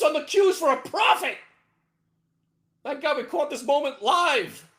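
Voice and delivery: loud high triumphant; thrilled shouting. Real, not acted. Trader shouting to viewers about his profit, thrilled. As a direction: crow about the sale.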